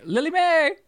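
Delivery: creepy. Real, not acted. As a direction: say the name in an eerie, unsettling sing-song. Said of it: "You said that in a really creepy way".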